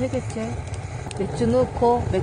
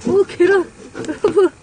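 excited exclaim; 6 semitones higher than usual. Real, not acted. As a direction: call out in amazement. Frozen egg discovered, exclaiming.

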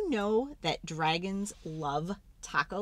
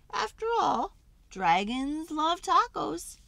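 triumphant; 8 semitones higher, 4 dB louder than usual. Acted. Storyteller proclaiming to kids that dragons love tacos. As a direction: announce it like a grand finale.

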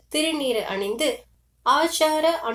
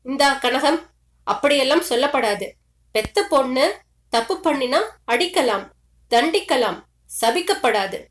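a touch of a stern uncle cutting her off; reining her in, brisk and firm; mildly stern uncle checking the mother's outburst; firm rebuke. Acted. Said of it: "என்று அவளை அடக்குகிறார்".

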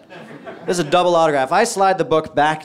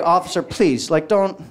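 acted begging, pitched up at the end; pleading; 2 semitones higher than usual. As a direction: plead with the officer, mock-desperate. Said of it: "I'm begging the guy".

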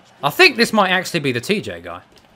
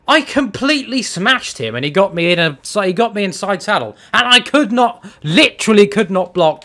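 raised-voice, indignant rant; heated complaint; 4 semitones higher than usual. Real, not acted. Gamer explaining an unfair loss, heated complaint. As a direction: protest it hotly, pitch often jumping up.

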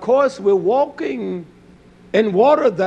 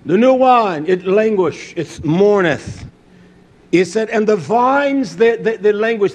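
declaimed scripture; 3 semitones higher, 5 dB louder than usual. Real, not acted. Preacher quoting the languishing vines, declaimed scripture.

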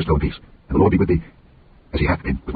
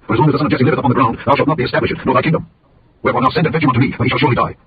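angry; 4 semitones higher than usual. Acted. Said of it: "Saul's anger was kindled".

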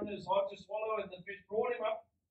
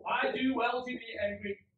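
mildly indignant, louder retort; acted defiant anger, firmly pushed; angry Jonah; 3 semitones higher, 5 dB louder than usual. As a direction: answer back stubbornly as Jonah. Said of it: "now Jonah responds".

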